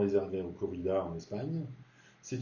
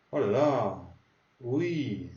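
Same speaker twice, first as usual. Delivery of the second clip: surprised oh là là; much slower than usual. Shown as a demonstration. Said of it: "quand t'es surpris".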